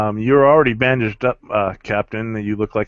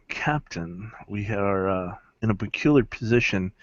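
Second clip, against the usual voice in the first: whispering; 2 semitones lower, 6 dB quieter than usual. Acted. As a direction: lean in and whisper urgently. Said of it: "whisper into your ear".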